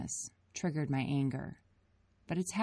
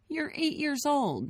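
terse; 11 semitones higher than usual. A narrator's reading. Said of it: "Nate continued tersely".

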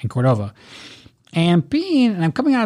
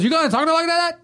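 retold challenge; 11 semitones higher, faster than usual. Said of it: "Tony goes".

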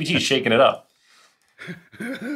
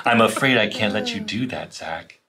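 HAL impression; 4 semitones lower than usual. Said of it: "like Hal in, in two thousand one".

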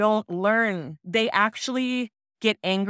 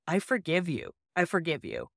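softer, gentle reassurance; soft forgiveness; 5 dB quieter than usual. Retold or imitated. Mother softly forgiving her ashamed son, soft and reassuring. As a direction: ease his shame, softly.

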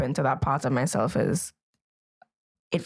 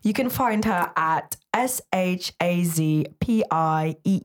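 slow spelling in a put-on British accent; lightly mock British spelling. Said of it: "talk in my British accent".

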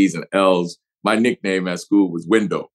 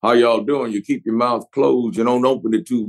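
Texas drawl; 3 semitones higher than usual. Shown as a demonstration. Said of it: "the drawl comes from keeping the dust out".

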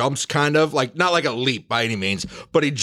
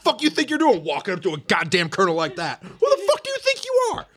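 bury the private under furious abuse; drill sergeant yelling; 10 semitones higher than usual. Acted. Chewing out a private in character.

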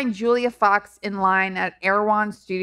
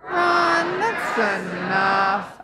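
shouted Run then slow that's enough; shouted catchphrase; much slower than usual. Shown as a demonstration. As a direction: call out Run then drag the rest. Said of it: "One, two, three".

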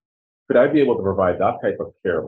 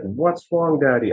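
lightly voiced worried child, higher pitched; retold child's question, pitched up; a hint of a little girl asking her dad; imitating young daughters; 5 semitones higher, slower than usual. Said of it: "My girls are like".

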